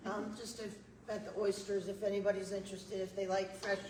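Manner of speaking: losing her voice, hoarse; strained, hoarse speaking. Real, not acted. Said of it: "I'm losing my voice".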